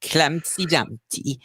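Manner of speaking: slow, singsong bad Welsh accent; attempted Welsh lilt. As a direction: recite verse in a shaky attempt at Welsh. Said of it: "Humpty Dumpty poem again with a Welsh lilt".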